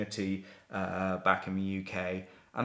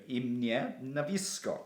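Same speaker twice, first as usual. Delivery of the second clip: post office clerk; slower than usual. Retold or imitated. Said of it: "the lady was going".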